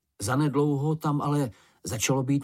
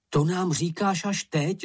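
raised excited exclamation; Mumínek exclaiming; 6 semitones higher than usual. A narrator's reading. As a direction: call it out, half-annoyed and half-thrilled. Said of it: "zvolal Mumínek".

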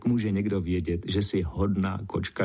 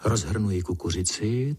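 plain reading voice

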